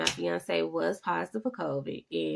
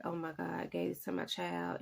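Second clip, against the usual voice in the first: guilty hushed dismay; hushed guilt; 9 dB quieter than usual. Retold or imitated. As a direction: breathe it out like a confession. Guilt over infecting her child.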